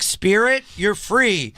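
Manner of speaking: high, loud mock ghost release; hammed-up spirit banishing; mock exorcist. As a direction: call out to the spirit theatrically. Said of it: "'Cause I was gonna be like".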